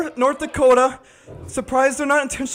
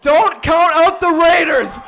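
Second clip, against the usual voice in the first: triumphant shout; 3 semitones higher, 4 dB louder than usual. Real, not acted. Celebrating comeback.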